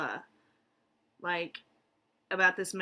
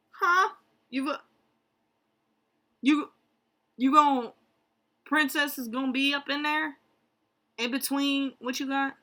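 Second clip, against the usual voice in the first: loud, higher, stammering double take; stunned disbelief; 7 semitones higher, 7 dB louder than usual. Acted. Reacting to where the princess will go, loud disbelief. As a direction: blurt it out, baffled and incredulous. Acting baffled reaction to the line.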